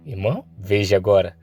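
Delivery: low, smug villain musing; cold villain. Acted. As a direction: gloat like the strong making the law. Cold villain speech, lower voice.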